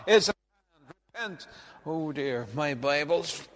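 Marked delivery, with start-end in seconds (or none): 0.1-1.5 high, ringing cry of repent; thundering prophet. Acted. Preacher on the riverbank crying out to the crowd, thundering. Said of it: "and he said".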